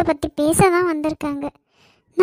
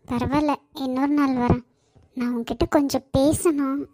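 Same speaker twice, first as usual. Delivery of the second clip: tearful; 4 semitones lower, 5 dB quieter than usual. Acted. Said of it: "இப்படி அழுவுற".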